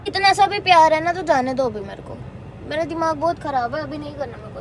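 loud, pushing him away; angry refusal. Real, not acted. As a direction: tell him to leave you alone, loud and upset. Angry girlfriend refusing in quarrel. (गुस्से में ज़ोर से मना करना)

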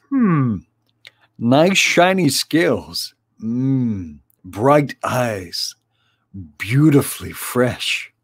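a hint of a cheerful cook sizing up a catch; jolly fat friar. Friar Hugo inspecting the fish.

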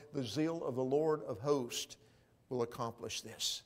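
measured, solemn reading of prophecy; scripture reading. Acted. Preacher reading Isaiah to the congregation, solemn. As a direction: read the prophet's words with weight.

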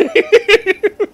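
shrieking burst of laughter; loud squealing laugh; loud high laugh. Real, not acted. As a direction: cracks up at the story. Laughing at the bad fanfic.

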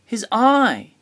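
high, loud storybook shout; excited call, pitched right up. A narrator's reading. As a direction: shout it out as a discovery. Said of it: "He pointed and shouted".

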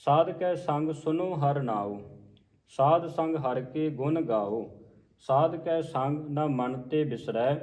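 slow, measured line-by-line reading; scripture recitation. Shown as a demonstration. Teacher modelling a scripture reading for learners, slow measured recitation. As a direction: recite each phrase slowly with pauses between.

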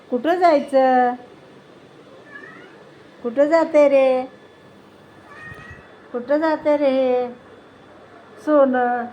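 slow, drawn-out coaxing to a little one; slow sweet-talk to a pet. Real, not acted. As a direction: stretch the words lovingly, slowly.

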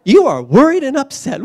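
slow, loud, exasperated rebuke; Jesus chiding. Retold or imitated. Jesus rebuking anxious Martha, loud and slow. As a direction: scold like a fed-up teacher. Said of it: "the Lord replied".

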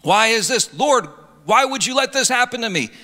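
imitating a wounded why-me protest; plaintive complaint. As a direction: act out an aggrieved believer questioning the Lord. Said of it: "Christians say".

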